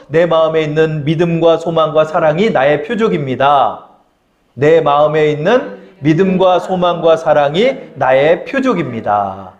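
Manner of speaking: slow, deliberate creed in phrases; call-and-repeat lead. Shown as a demonstration. Preacher leads congregation in repeating the creed, slow declaration. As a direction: give them time to repeat each phrase. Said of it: "저를 한번 따라할게요".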